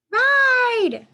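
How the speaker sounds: high, loud demanding shout; commanding child. A narrator's reading. Baby gorilla Kudzu demanding a ride, high loud command. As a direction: bark it like a bossy little gorilla. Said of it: "Kudzu commands".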